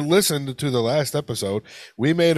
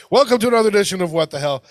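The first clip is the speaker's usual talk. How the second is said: fast, loud retake of the intro; rushed retake; 5 semitones higher, 5 dB louder, much faster than usual. Acted. Host rushing the intro after a flubbed start, fast. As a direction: blurt the welcome out quickly. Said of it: "Take three".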